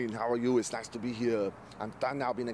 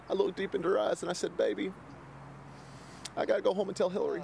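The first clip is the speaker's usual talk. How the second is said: politician impression; 7 semitones higher than usual. Politician telling interviewer about scandal, smug impression. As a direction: play a charming old politician.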